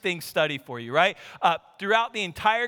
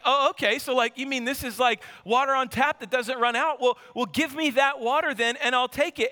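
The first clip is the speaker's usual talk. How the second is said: mildly excited woman, pitched up; 4 semitones higher than usual. Retold or imitated. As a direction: imitate her eager dawning interest, a little higher. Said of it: "She got excited".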